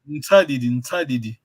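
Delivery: "Ntadidi" said with the N barely sounded; silent N. Shown as a demonstration. Teacher correcting student, "Ntadidi" without a sounded N. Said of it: "You don't say N Sadi".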